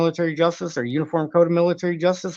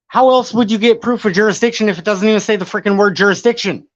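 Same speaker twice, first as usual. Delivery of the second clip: exasperated; 5 semitones higher, 5 dB louder than usual. Real, not acted. Frustrated rant about jurisdiction wording.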